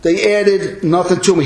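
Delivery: biting pulpit sarcasm, easing at the end; sarcastic Paul. Acted. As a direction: dismiss them with high, emphatic sarcasm. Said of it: "Paul is totally using sarcasm here".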